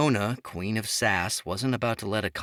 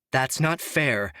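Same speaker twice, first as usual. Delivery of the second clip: slow, higher, louder, biting each word; vicious retort; 6 semitones higher, 4 dB louder than usual. A narrator's reading. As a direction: hit back hard, slowly and coldly. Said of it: "Sophia responded viciously".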